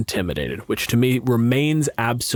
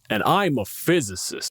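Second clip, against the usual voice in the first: a hint of condescension; smug. Shown as a demonstration. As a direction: say it like you think you're better. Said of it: "they hear it as".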